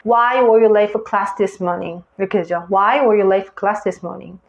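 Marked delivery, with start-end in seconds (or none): 0.1-2.0 "Why", "late", "class", "morning" stressed, small words reduced; content-word intonation. Shown as a demonstration. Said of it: "이런 식으로 인토네이션을 줘야". 2.7-4.4 "were you" and "for" light, "class" and "morning" weighted; content-word intonation. Shown as a demonstration. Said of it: "이런 식으로 인토네이션을 줘야".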